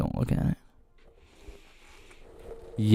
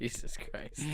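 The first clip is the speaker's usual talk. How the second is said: whispering; 16 dB quieter, slower than usual. Real, not acted. Whispered exasperation.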